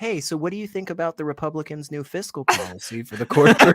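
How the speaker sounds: put-on fast, earnest policy talk to a child; mock grown-up. Adult quizzing a child on fiscal policy, quick and deadpan. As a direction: rattle off a pundit's question at a toddler. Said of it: "being like".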